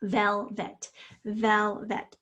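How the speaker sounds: VELVET in two parts, VEL and VET; split into syllables. Shown as a demonstration. Teacher demonstrates closed syllables, VELVET split as vel, vet. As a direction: say VELVET by syllables, both short vowels clear. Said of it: "both of those short syllables".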